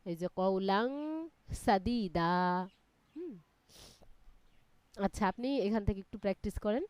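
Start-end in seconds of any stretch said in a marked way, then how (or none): 0.4-2.3 "সাদীদা" ending on a lengthened "দা"; one-alif lengthening. Shown as a demonstration. Teacher giving a second example of the rule, last "দা" of "সাদীদা" held long. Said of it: "এক আলিফ টেনে পড়তে হবে".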